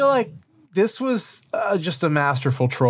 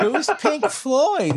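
mock clueless; 10 semitones higher, much slower than usual.

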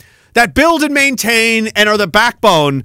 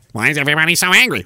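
quick, lower, fake-puzzled whine; mocking rich guy; 4 semitones lower, much faster than usual. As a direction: toss it off like a smug millionaire. Mocking the millionaire.

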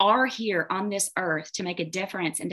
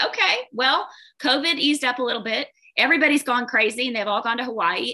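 higher, louder wry reasoning with yourself; exasperated self-talk; 5 semitones higher, 3 dB louder than usual. Retold or imitated. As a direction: talk yourself into an excuse, half joking. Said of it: "I said".

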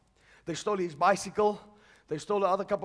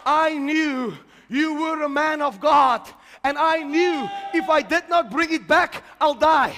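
retold thief's words; 6 semitones higher, 7 dB louder, slower than usual.

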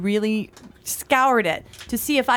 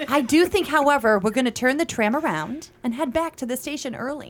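light touch of a polished tour guide. Acted. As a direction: announce it like a theme park tram guide. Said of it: "I can hear you on that tram".

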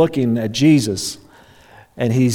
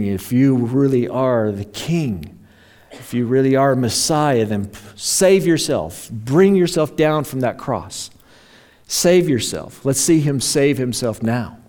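mocking jeer; 3 semitones higher than usual. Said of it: "They're jeering at him".

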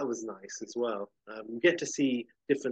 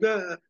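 mock cry; 9 semitones higher, 3 dB louder than usual. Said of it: "it's not like".

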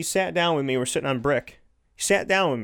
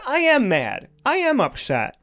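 retold firm anger; 3 semitones higher than usual. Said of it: "he didn't raise his voice".

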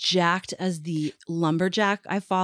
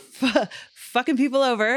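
higher, louder angry burst; 6 semitones higher, 5 dB louder than usual. Real, not acted. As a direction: spit it out in anger. Angry outburst on bans.

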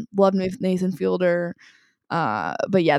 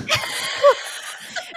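high laugh. Real, not acted. Laughing at quote.

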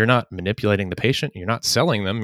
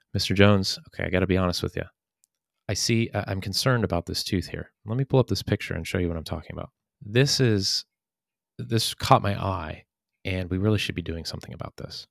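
late night DJ voice; 3 dB quieter than usual. Shown as a demonstration. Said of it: "That's when you can go into your late night D J voice".

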